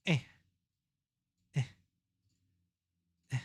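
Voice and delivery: short strained grunts while working; effort grunt. Real, not acted. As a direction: grunt with effort, three times. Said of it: "sorry for all the grunting".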